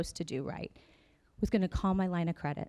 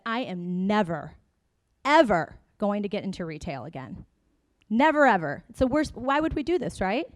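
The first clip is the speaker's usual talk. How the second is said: mock vow; 3 dB louder than usual. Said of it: "So I said".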